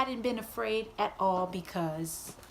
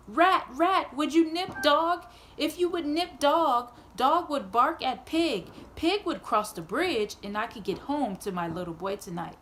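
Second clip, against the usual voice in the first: urgent plea; 3 semitones higher than usual. Acted. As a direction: beg the rat for help, pitch up. Old woman pleads with rat.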